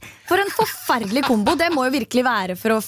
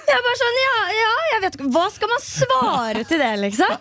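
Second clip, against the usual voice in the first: higher, laughing and flustered; flustered laughing reply; 8 semitones higher than usual. Retold or imitated. The speaker retelling her flustered reply, half laughing. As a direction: stammer out a laughing answer. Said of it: "jeg står der og bare sånn".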